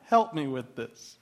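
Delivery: slow, exasperated plea to heaven; lightly voiced worn-out wife; weary mock prayer. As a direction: drag it out like a tired mom praying. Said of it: "It's like".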